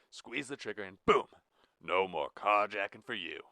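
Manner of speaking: lightly voiced teasing menace; half-joking threat. Blue half-jokingly threatening Jack. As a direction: toy with him, half in jest. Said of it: "half-jokingly".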